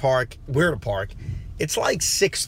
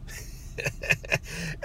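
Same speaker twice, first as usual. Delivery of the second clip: breathy disbelieving laugh; 10 dB quieter than usual. Retold or imitated. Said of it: "And I just start laughing".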